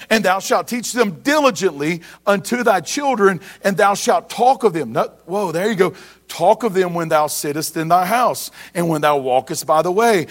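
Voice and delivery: put-on measured, solemn reading of the old verses; scripture reading. Pastor reading Deuteronomy to his congregation, solemn and steady. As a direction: read the King James lines steadily to the church. Reads Deuteronomy passage aloud.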